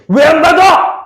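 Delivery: high-pitched, indignant demand; angry outburst. Acted. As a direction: act out Cain flaring up over a rejected gift. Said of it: "하고 화를 내는 거야". (발끈 화내며 따지는 말투)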